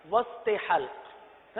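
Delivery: وسط حلق said very slowly; drawn-out. Shown as a demonstration. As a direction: stretch the words out slowly. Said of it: "حلق کا درمیان". (بہت آہستہ کھینچ کر)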